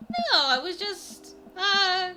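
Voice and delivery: put-on teen girl voice. Amanda voice continues, caught out.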